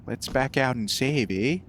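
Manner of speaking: mock Canadian accent, light; a playful Canadian "eh". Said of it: "I can't do a Canadian accent".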